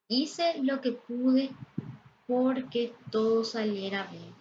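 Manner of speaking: slow start on "Hice lo que pude"; slow example sentence. Shown as a demonstration. Teacher slowly reads a grammar example aloud. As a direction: read the example deliberately. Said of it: "Aquí tenemos algunos ejemplos".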